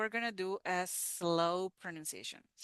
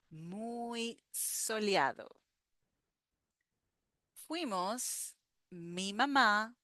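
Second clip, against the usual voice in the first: slow, phrase-by-phrase read-aloud; teacher reading a paragraph slowly. Shown as a demonstration. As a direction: read each phrase slowly for students to repeat. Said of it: "So I'm gonna read very slow".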